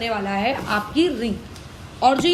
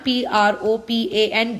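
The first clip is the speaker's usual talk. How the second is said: spelling it out; 3 semitones lower, much slower than usual. Shown as a demonstration. Spelling a name for students.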